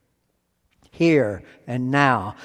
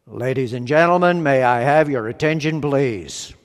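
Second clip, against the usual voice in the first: mock announcer; 3 semitones lower, faster than usual. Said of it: "It could be".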